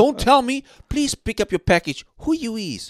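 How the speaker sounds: high, loud exasperated rant; indignant rant. Real, not acted. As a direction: scold the scammer. Ranting at scammers.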